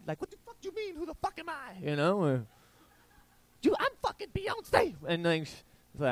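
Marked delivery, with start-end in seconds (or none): 0.2-1.8 high, hushed mock outrage; a singer. The singer answering the fighter who didn't know her, mad falsetto. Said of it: "do you think Beyonce was mad?". 3.6-4.9 very high, indignant falsetto; a singer. Acted. The singer telling the fighter who she is, mad falsetto. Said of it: "do you think Beyonce was mad?".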